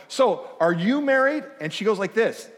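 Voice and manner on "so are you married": rising, slow question; host asks the guest point blank; quizzing. Retold or imitated. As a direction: ask it high and drawn out. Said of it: "and I go".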